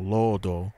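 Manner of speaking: "lodo" with a held first o; elongated vowel. Shown as a demonstration. Explaining where the accent falls, long-vowel "lodo". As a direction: lengthen the o in "lodo" evenly. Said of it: "the elongated vowel".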